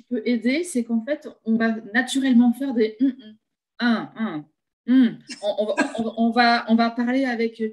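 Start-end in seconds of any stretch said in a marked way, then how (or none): 3.8-5.2 closed-mouth hum. Shown as a demonstration. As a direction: hum with lips shut. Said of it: "la bouche fermée et faire des hum".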